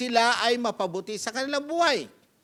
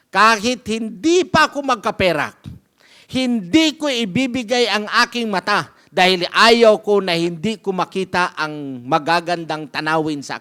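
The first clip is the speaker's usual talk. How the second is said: louder, insisting he will not give it; a man loudly refusing to give up his eye; loud firm refusal; 2 semitones lower, 7 dB louder than usual. Acted. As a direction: declare it with force, refusing to budge. Man firmly refuses the teacher.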